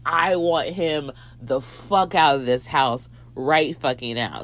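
slow, emphatic mock anger; measured, firm irritation; pissed off. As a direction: imitate a friend laying down the law. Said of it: "she got pissed off".

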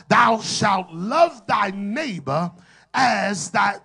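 loud preaching shout. Shown as a demonstration. Preacher leads the congregation in the verse, shouting. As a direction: call the verse out to the rafters. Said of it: "just one more time for the Holy Ghost".

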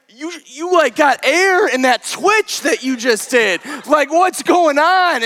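freaking out. Retold or imitated. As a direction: demand an explanation, acting freaked out. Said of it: "I'm freaking out".

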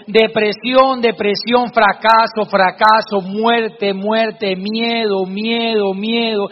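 each word said twice as an echo, fading at the end; cave echo. Acted. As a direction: echo the father's words back from far off. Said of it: "se escuchaba en el fondo".

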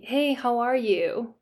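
slow, drawn-out friendly greeting; polite small talk. Acted. Giving an example of English pragmatics, polite small talk. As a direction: mimic a routine polite hello. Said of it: "saying that to be polite".

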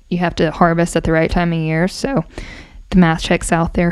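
breathless, rushing the words; out of breath. Real, not acted. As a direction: speak winded, short of air. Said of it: "Well, I'm so out of breath".

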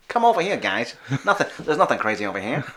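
lightly voiced shady showman; Dick Dastardly. Host luring guys to the circus, sketchy showman voice. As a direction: start high, coax them over like a hustler. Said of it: "trying to go like Dick Dastardly".

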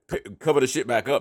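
ordinary talk

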